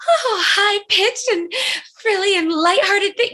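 sing-song it like a cartoon princess; Snow White voice. Shown as a demonstration. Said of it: "Snow White's voice is like that".

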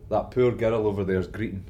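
put-on broad Scottish accent. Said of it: "Thick Scottish accent".

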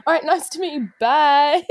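high, falsely cheery farewell; brisk polite goodbye. Retold or imitated. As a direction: act out escaping the bad date. Acts hurried polite goodbye after bad date.

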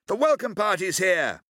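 high, loud cheeky hail; shouting. Acted. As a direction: shout it cockily toward the ship. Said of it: "he shouted".

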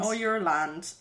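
exaggerated Irish vowels. Shown as a demonstration. Trading the word with partner, mock Irish accent. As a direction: lean on the Irish oi. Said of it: "the I pronounces oi".

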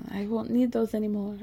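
put-on a light, half-hearted try at Natalie's accent; Natalie accent attempt. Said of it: "I don't know what accent I'm doing".

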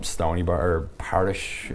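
slow, solemn fake priest, a light hint only; somber priest. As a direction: play a pious priest giving his name, slowly. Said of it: "So I just walked up really somber".

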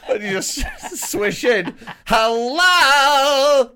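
high, loud camp greeting; Owen Jones impression. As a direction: swish in with a big bright hello. Mimicking Owen Jones entering.

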